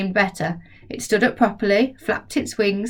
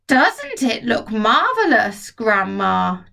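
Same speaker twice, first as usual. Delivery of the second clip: put-on boy shouting; slower than usual. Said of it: "George shouted".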